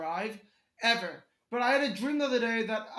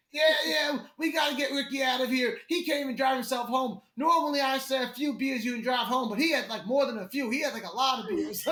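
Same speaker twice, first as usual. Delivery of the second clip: rough impression of southern bar locals; thick southern accent; 2 semitones higher than usual. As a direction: attempt a thick southern accent, not too skilfully. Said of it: "the thickest southern accent".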